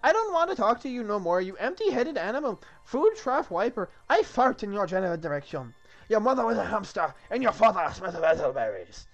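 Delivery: high, loud, hammed-up French taunting; French accent. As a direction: hurl insults as an outrageous Frenchman. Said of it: "I got the French accent down now".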